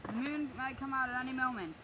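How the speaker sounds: hushed doctor's urging; low voice. Acted. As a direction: keep it soft, urgent. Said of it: "he said in a low voice".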